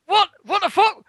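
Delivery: high, loud disbelieving cry; shocked outburst. Retold or imitated. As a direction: blurt it out, stunned. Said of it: "And I'm like".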